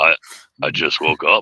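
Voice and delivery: put-on deep thick voice. Coached by friends to go deeper, the speaker retries in a deep thick voice. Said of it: "You got to get deeper with it".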